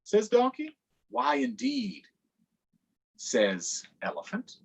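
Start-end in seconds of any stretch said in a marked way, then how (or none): 0.0-2.0 high, eager cartoon donkey; perky donkey pitching for votes. Donkey asking kids for votes, high and eager.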